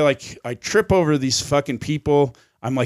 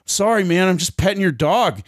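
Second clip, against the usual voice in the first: higher-pitched, placating plea; mock defensive apology; 6 semitones higher than usual. Raver excusing himself to an angry stranger, mock defensive apology. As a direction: act out an innocent excuse, pitched up.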